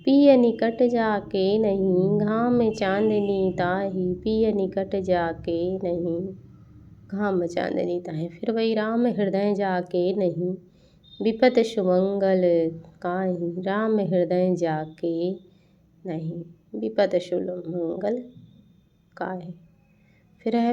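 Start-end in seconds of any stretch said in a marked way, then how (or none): 0.0-8.3 slow, drawn-out verse reading; verse recitation. Acted. Teacher reciting an example couplet for students, slow recitation. 8.7-19.5 measured, slowing verse reading; verse recitation. Acted. Teacher repeating a verse so students remember it, measured recitation.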